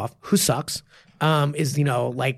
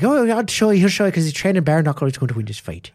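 put-on terrible Irish accent. Irish student boasting to his teacher about the bet, bad Irish accent. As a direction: imitate a cocky Irishman, badly. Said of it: "that's a terrible Irish accent".

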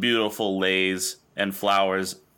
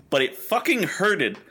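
mock hurt; 4 semitones higher than usual. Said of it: "It didn't hurt. It hurted me".

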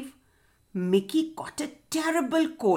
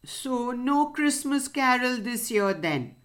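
tearful; 3 semitones higher than usual. Acted. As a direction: let the voice sink with sorrow. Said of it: "Fred was tearful".

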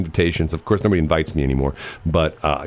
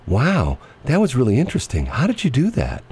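surprised caller; 7 semitones higher than usual. Retold or imitated. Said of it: "the lady says".

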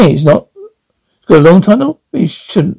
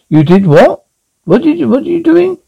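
high, fast shriek of alarm; 10 semitones higher than usual. Acted. Cop boss squealing fast at the rookie.

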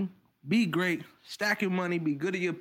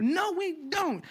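laughing; 9 semitones higher, slower than usual. Real, not acted. Laughs agreeing with cohost.

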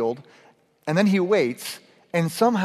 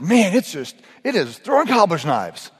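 louder, higher mock exclaiming; acted exclamation; 4 semitones higher, 5 dB louder than usual. Someone comes into the hotel from hard rain, exclaiming. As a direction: play someone bursting in about the downpour.

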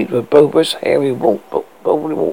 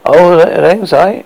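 incredulous; 3 semitones higher, 5 dB louder, slower than usual. Acted. Customer baffled by singing demand.

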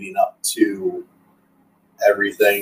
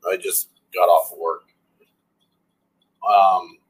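with hiccups. Real, not acted. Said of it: "oh, excuse the hiccups too".

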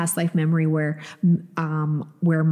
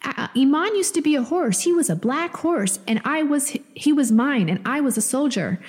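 much higher, childlike imitation of her son; little son's voice; 8 semitones higher than usual. Mom retelling her son's words to podcast cohost, in a high childlike voice. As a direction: pitch way up to play her little boy. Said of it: "He's like".

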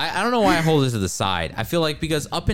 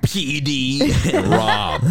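radio host voice; 2 semitones higher, much slower than usual. Pretend. Mock radio host intro.

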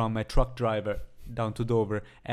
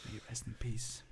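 mock sad; 5 dB quieter than usual. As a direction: mourn lightly, trailing into a hush.

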